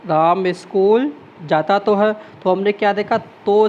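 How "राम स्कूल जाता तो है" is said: slow, weight on "तो है"; stress on तो. Shown as a demonstration. Teacher slowly stresses "जाता तो है" for the class. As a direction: lean on तो to show emphasis. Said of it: "जोर दिया जा रहा है किस पर".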